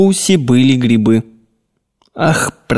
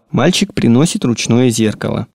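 normal talking voice

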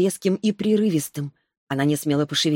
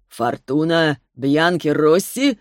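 slow, surprised question; slower than usual. Acted. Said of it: "спросил Арис".

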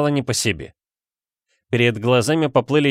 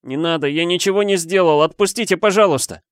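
desperate plea; 7 semitones higher than usual. Acted. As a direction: beg for your life. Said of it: "взмолился я".

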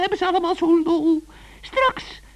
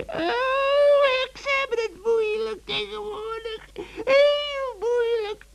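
tearful witch. Acted. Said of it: "nu wel kan huilen van woede".

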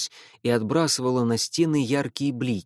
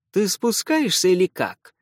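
sharp, impatient question, higher and louder; irritated; 6 semitones higher, 4 dB louder than usual. A narrator's reading. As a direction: snap at him impatiently. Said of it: "раздражённо спросил Лео". (раздражённо)

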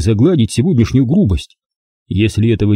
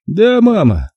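lightly voiced meek son; a touch of obedient submission; meek reply; 10 semitones higher, slower than usual. A narrator's reading. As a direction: son giving in to his mother, meekly. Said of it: "покорно ответил он".

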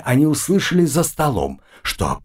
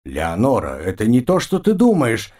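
panicked squeal. Acted. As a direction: squeal in terror like a trapped animal. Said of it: "визжала от страха Рабе".

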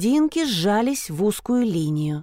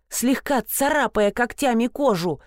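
usual speaking voice

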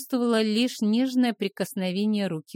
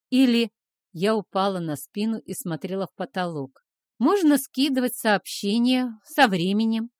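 contemptuous; 4 semitones higher, 4 dB louder than usual. Acted. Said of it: "показать, насколько я его презираю".

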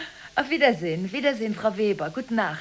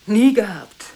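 Nie gehabt shouted much louder, falling hard on Nie; loud outburst; 12 dB louder than usual. Acted. Shouting the denial at Gigi down the phone. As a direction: burst out, hammering the denial.

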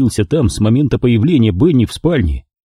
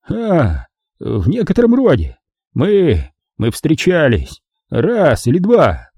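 nervous; 6 semitones higher, slower than usual. Acted. Nervous lie to killer.

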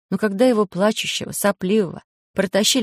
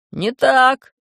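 interrupting shout; 7 semitones higher, 4 dB louder than usual. A narrator's reading. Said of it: "перебили его другие голоса".

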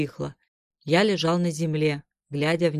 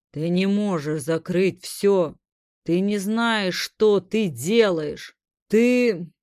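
1 mind creature; 2 semitones higher, 4 dB louder, slower than usual. Acted. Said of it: "Оно говорило без слов".

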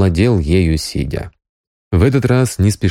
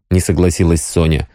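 ordinary delivery, nothing marked

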